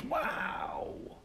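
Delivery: breathy high whispered wow; a dutiful, impressed whisper. Acted. Friend shown the comic, whispering a dutiful wow. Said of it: "equally dutifully exclaimed".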